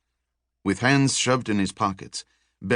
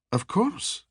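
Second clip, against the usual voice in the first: put-on French accent; 12 semitones higher than usual. A narrator's reading. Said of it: "with a distinct French accent".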